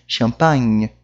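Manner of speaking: "Champagne" ending on the nasal nh, E unvoiced; silent final E. Shown as a demonstration. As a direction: finish "Champagne" in the nose on the gn. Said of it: "eu termino a minha pronúncia no".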